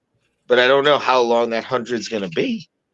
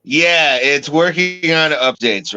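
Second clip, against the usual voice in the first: yelling over helicopter; 6 semitones higher, 4 dB louder, slower than usual. Real, not acted. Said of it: "Sound like you're in a helicopter".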